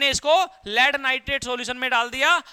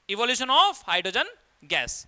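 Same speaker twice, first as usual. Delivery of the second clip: dictating slowly; much slower than usual. Shown as a demonstration. Teacher dictating a heading.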